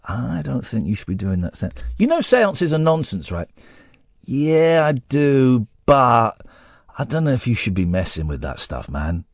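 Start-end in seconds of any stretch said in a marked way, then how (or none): 0.0-1.7 mock worried warning. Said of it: "have come up to me and said". 4.2-9.2 mock worried warning. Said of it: "have come up to me and said".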